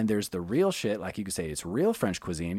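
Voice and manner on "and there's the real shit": usual speaking voice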